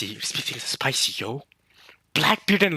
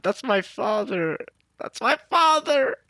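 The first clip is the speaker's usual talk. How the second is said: slow, drawn-out wail rising much higher; crying plea; 7 semitones higher, slower than usual. Retold or imitated. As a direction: act out a tearful daughter's cry, building. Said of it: "and she's crying".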